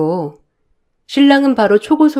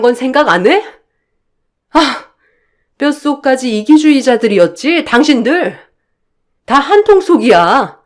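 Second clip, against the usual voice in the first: raised, indignant voice; furious retort; 3 semitones higher, 3 dB louder than usual. Acted. Wife lashing back at husband and mother-in-law, furious and loud. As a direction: lash back at them both.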